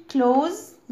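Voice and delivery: "clothes" said just like the verb "close"; pronounced like close. Shown as a demonstration. Teacher showing kids the word for ملابس, "clothes" pronounced like "close". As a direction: say "clothes" as one syllable, like "close". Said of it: "بنطقها نفس النطق بتاع كلمة close".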